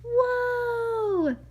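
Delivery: high exclaimed whoa; amazed whoa. Acted. Reader marvelling to the child at the finish. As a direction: gasp it out in wonder.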